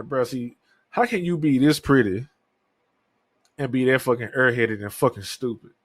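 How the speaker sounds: retold exasperation, pitch lifted at first; mad, exasperated. Man recounting what he told an airheaded date, exasperated. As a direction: scold her in mild disbelief. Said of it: "that made me so mad".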